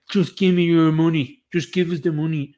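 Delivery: a loud mock bark for money in the voice of a rock singer; hammed-up rock star demanding cash. Streamer mocking a singer's plea to the public, loud mock demand.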